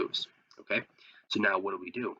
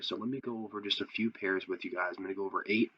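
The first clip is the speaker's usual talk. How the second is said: hoarse sick voice; talking through a cold, voice worn. Real, not acted. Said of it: "excuse my voice, I am a little sick".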